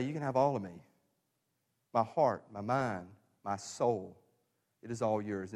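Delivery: low, softened, sincere offering; tender surrender. Acted. Preacher voicing what God wants us to say, tender and soft. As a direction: give each part gently, with pauses between.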